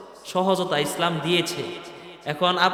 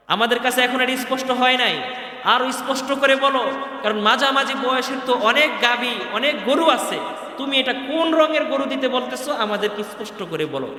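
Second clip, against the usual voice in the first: raised, pressing voice demanding clarity; insistent raised demand; 6 semitones higher, 3 dB louder than usual. Acted. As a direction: push Musa hard for a clear answer. (উঁচু গলায় জোর দিয়ে দাবি)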